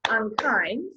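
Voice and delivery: UNKIND in two even beats, UN then KIND; clapped syllables. Shown as a demonstration. Teacher showing you hear it twice, UNKIND in two beats. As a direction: mark both syllables of UNKIND. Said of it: "So if you clap it".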